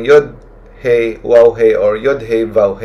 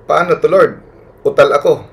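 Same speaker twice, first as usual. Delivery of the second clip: pleading Moses; 5 semitones higher than usual. Retold or imitated. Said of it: "sabi ni Moses".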